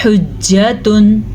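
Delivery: slowly chanted حجتن with a distinct pharyngeal h; clear throaty h. Shown as a demonstration. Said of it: "تو آپ نے اس کو پڑھنا ہے". (حجتن میں واضح حا)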